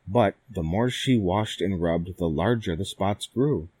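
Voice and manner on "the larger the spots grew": ordinary delivery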